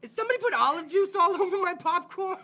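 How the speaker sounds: mock disgusted customer. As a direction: act out a confused moviegoer tasting something off. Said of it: "I'm like".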